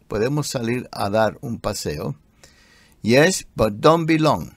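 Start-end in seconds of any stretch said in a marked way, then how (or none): 0.1-2.2 softer second take of "¿Podemos salir a dar un paseo?"; softer repeat. Shown as a demonstration.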